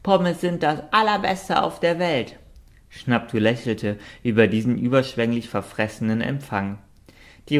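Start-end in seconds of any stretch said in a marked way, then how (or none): 0.0-2.4 hohe, verfressene Hundestimme; schwärmende Hündin. Acted. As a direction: voller Schwärmerei für Pommes. Hund schwärmt von Pommes. (begeistert schwärmend)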